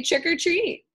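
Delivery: high, loud witchy taunt; sneering little witch voice; cackling witch. Acted. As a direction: crow it like a gleeful witch. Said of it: "cracked O-, Ophelia".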